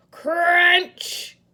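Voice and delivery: punchy sound-effect word; loud crunch. Acted. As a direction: bang it out.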